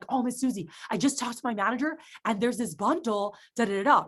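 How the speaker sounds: mildly excited news-breaking. Shown as a demonstration. Rep returning to customer with a bundle, excited. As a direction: share good news with lively lift. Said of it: "have that same level of excitement".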